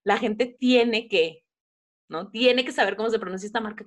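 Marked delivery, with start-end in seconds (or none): 2.3-3.8 mock preachy. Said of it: "qué dejaste de hacer para detenerte y decir".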